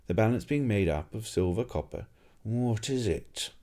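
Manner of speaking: a hint of a doddering old scholar explaining; the alchemist patiently explaining to the innkeeper. Old alchemist voiced in story.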